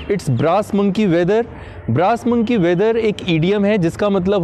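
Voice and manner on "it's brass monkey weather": very slow, clear English phrase; slow model sentence. Shown as a demonstration. Teacher modelling a phrase for viewers, very slow. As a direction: say it slowly so they can repeat. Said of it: "model sentence".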